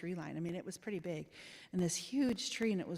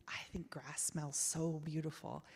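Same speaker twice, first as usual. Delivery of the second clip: soft hushed whisper; 2 semitones lower, 6 dB quieter than usual. Real, not acted. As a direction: breathe the words, almost no voice. Recalling the smell after rain.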